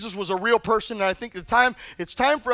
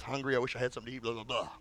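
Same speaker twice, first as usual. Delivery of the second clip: fast, much softer grumble to himself; hungry man muttering to himself, lower and softer; mumbling under breath; 12 semitones lower, 15 dB quieter, much faster than usual. Retold or imitated. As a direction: mutter it quickly, as if nobody should hear. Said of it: "probably mumbling under his breath".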